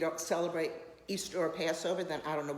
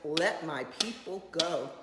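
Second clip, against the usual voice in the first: Let my people go; 2 semitones lower, slower than usual. Retold or imitated. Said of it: "went like this and went".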